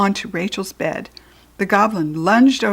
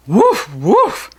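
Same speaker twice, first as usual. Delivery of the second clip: loud mock dog barking; 6 dB louder than usual. A narrator's reading. Buttons barking behind the girls, mock bark.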